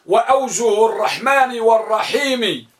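slow recited line of verse; verse recitation. Shown as a demonstration. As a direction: chant the verse line slowly. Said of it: "ولذلك قال القائل". (إنشاد بيت الشعر ببطء)

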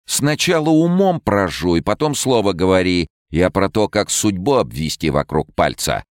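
high, loud stern gypsy; fortune teller. Acted. Rona scolds.

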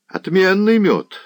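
high, drawn-out appreciation; savouring servant lad. A narrator's reading. Servant admiring the mead, high and unhurried. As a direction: relish it slowly, pitched well up.

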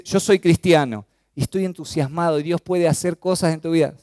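eager, energetic testimony; enthusiastic. Shown as a demonstration. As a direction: proclaim it with enthusiasm. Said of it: "de entusiasmo".

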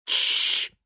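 firm unvoiced shush; commanding hush. A narrator's reading. Daughter shushing her terrified father, firmly. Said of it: "приказала она".

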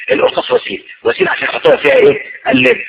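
very high, breathy emphasis; soaring sermon emphasis; emphatic high point. Real, not acted. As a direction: lift it right up to land the point. Preacher drives home the point.

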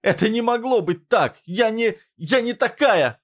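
high broken yell; desperate cry. A narrator's reading. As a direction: cry out the denial, slowing at the end. Mila in denial, shouting.

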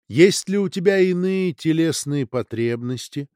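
a lightly ringing crystal voice. Acted. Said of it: "хрустальный голос".

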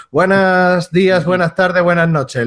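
showy greeting. Acted. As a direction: greet him like a game show host. Big showy greeting to co-host.

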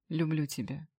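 soft, hushed confession; whispered. A narrator's reading. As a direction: breathe the words tenderly. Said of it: "прошептал я". (шёпотом)

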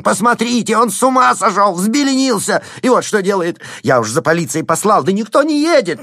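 very high, loud panicked squeal; frantic landowner squealing for the police; hysterical squeal. A narrator's reading. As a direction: squeal like a cornered man. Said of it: "завизжал он".

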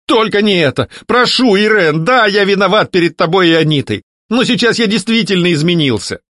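high, pleading ghost; begging. A narrator's reading. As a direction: plead desperately.

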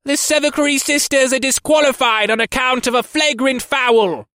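high, loud booming gargoyle voice; metallic gargoyle boom. Acted. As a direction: boom it out like a bronze statue. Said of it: "spoke in a less ear-splitting metallic boom".

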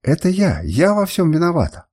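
high pleading voice; desperate confession. Acted. Мидис confessing to her furious master, high and pleading. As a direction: take all the blame, begging. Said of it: "воскликнула Мидис".

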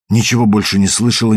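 usual speaking voice

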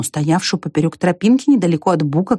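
ordinary delivery, nothing marked

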